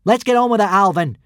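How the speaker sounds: calling out. A narrator's reading. Hiccup calls to Alvin in a loud firm call. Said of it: "Hiccup called out".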